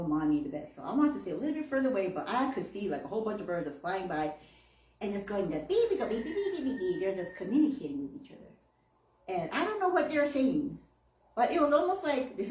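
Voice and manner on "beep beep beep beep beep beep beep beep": bird chirp imitation. Imitating birds communicating.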